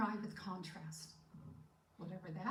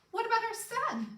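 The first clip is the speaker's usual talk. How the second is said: high, loud cry of disbelief; stunned outcry; 13 semitones higher, 7 dB louder than usual. Retold or imitated. Pleading after husband's divorce threat.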